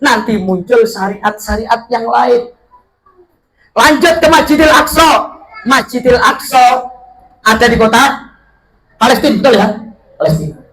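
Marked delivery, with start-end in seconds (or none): 3.7-6.9 preaching emphasis. Acted.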